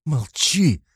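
высокий резкий окрик; раздражённо прикрикни; раздражительно. A narrator's reading. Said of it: "раздражительно крикнула". (жена раздражённо кричит на мужа)

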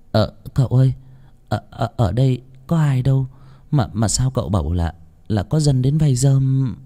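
puzzled servant, stammering; growing unease, asking the master; uneasy servant. Acted. (giọng người hầu ngơ ngác, ấp úng)

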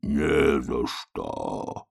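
very slow rasping creak; slow low creaky rasp; wheezing oak. A narrator's reading. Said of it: "прохрипел дуб".

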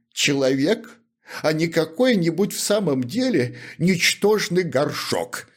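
put-on high, whining voice of a wronged drunkard; tearful-sounding complaint of a humble shoemaker; aggrieved shoemaker. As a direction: plead your grievance high and plaintive.

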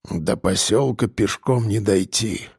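put-on low, dull old hunter's voice; a low, muted old man; глухо, низким голосом старика; muffled old man. A narrator's reading. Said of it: "глухо проговорил старик".

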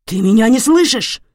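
loud, high, threatening question; angry yell. Acted. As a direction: shout it right into her face. Father yelling at wife.

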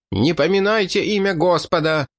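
a touch of hysteria, without shouting; mildly hysterical cry. A narrator's reading. Fanatical priest rebukes the blasphemer, mildly hysterical. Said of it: "истерично завопил тосконец".

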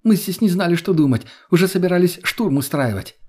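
high, heated scolding; angry scolding. Acted. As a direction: vent worry as anger. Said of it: "сразу разозлилась она".

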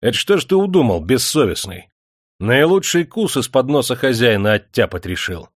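high, loud burst of spite; angry attack. A narrator's reading. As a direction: lay into a servant angrily. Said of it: "вдруг злобно набросился на Митьку".

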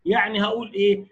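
normal talking voice

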